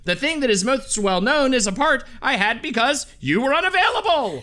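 Wallace Shawn impression. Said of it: "I'll do a quote in his own voice".

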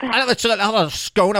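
a playful hint of a posh British accent; mock British accent. Ordering a scone in jest, a light mock British accent. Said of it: "And will you put on British accents?".

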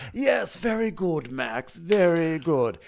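slow, drawn-out motherly approval; indulgent mock praise. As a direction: coo slow praise as if to a little boy. Mother praising son, acted.

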